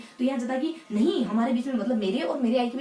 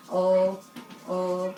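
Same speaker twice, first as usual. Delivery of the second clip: put-on stammering child; 5 semitones lower, much slower than usual. Shown as a demonstration. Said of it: "थोड़ा तुतलाता है".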